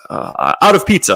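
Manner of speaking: high, halting broken-English voice; pizza man voice. Retold or imitated. Pizza man tells the hungry guest there is no pizza, halting high voice. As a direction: deliver the bad news haltingly.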